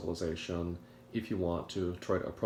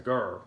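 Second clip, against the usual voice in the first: loud mock "grr"; a louder growl of a response; imitated growl; 3 semitones higher, 8 dB louder than usual. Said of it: "of a response".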